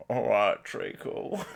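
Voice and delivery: a light Cockney "All right, treacle", breaking into a laugh; quick Cockney greeting, laughing through it; Cockney Alfie impression. Imitating the Peaky Blinders character for a friend, light Cockney. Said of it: "incredibly Cockney Jew".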